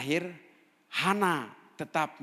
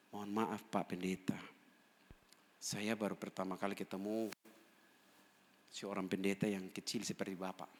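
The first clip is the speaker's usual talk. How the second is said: softly voiced, lower apologetic quote; humble apology; 4 semitones lower, 6 dB quieter than usual. Ex-prisoner apologising to a pastor he doubted, softly humble. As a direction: apologise quietly, with measured hesitations.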